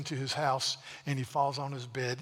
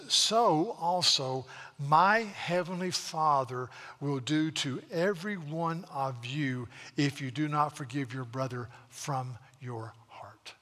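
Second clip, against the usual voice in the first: slow solemn quote fading to a whisper; slower than usual. Acted. Preacher quotes Jesus solemnly.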